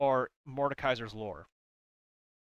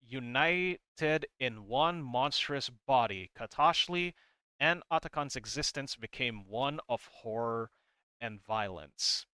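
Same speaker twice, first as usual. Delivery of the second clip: comic read-aloud. A narrator's reading. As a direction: draw out the ominous lines with pauses. Reads comic narration aloud.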